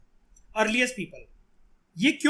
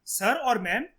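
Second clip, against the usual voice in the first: polite concession; 4 semitones higher, much slower than usual. Shown as a demonstration. Teacher demonstrating a polite concession to the panel, gentle. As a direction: politely grant the point, higher pitch. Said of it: "हो सकता है आप सही कह रहे हो sir".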